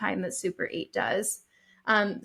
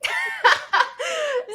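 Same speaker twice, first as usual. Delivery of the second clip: laughing out loud; 5 dB louder than usual. Real, not acted. Bursts out laughing at Jill.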